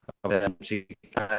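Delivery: choppy call audio with dropouts; breaking up space radio. Real, not acted. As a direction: voice cutting in and out over a bad connection. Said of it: "signal suaranya putus-putus".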